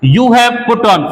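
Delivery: slow, careful teacher read; slow classroom demo; slow model phrase. Shown as a demonstration. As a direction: spell it out slowly for learners. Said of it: "तीसरे expression पे आते हैं हम".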